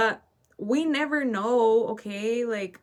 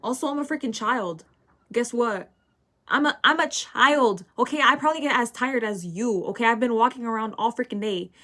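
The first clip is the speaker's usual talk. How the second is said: indignant rant; 5 dB louder than usual. Retold or imitated. Child answers the old lady, loud indignant rant. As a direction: let the frustration boil over.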